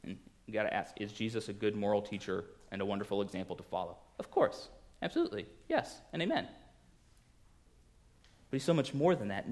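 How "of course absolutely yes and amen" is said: hushed affirmation. Real, not acted. Answers own question softly.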